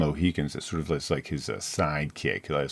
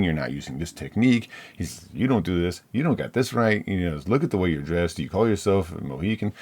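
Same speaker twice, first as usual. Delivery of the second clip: a touch of mock scolding, fussy; lightly voiced nagging mentor; nitpicking lecture; 2 semitones higher than usual. Hunter nitpicks the brave's moccasins and sneaking, mild mock scolding. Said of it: "he starts dressing him down".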